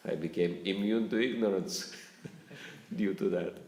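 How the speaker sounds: laughing through the boast; mock-proud, chuckling; half-laughed joke. Real, not acted. Joking about his sleeplessness.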